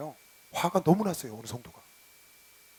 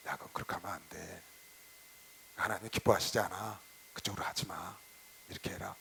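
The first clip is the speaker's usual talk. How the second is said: gentle pastor's advice; 11 semitones lower, 13 dB quieter than usual. Retold or imitated. Pastor voiced advising a member.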